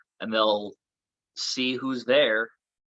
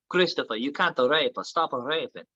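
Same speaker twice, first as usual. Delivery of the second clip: put-on silly Italian accent; 3 semitones higher than usual. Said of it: "I do a silly Italian accent".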